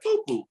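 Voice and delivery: high squeaky "poo poo" heartbeat; tiny high heartbeat sound effect; imitated heartbeat. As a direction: mimic your heart thumping with nerves. Heart pounding at the gym door.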